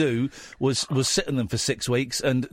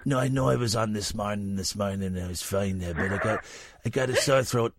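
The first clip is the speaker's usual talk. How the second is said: lightly voiced quiet sick caller on the phone; soft, croaky-sounding fake sick call; Eamon calling in sick; 3 semitones lower, 4 dB quieter than usual. Imitating Eamon phoning his boss, lightly put-on sick voice. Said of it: "hi, it's Eamon".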